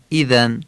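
ایذن starting on a clear Arabic i; eloquent kasra. Shown as a demonstration. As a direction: open ایذن with "i", not "e". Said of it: "کسرهٔ اذن فصیح خوانده بشه". (ایذن با کسرهٔ فصیح)

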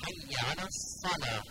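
الصلاة with a full, heavy s; heavy sad. Shown as a demonstration. Teacher models the new phrase, heavy sad in الصلاة. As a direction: slowly, make the s of الصلاة thick and throaty. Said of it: "این صاد صلات رو باید درشت تلفظ کنیم".

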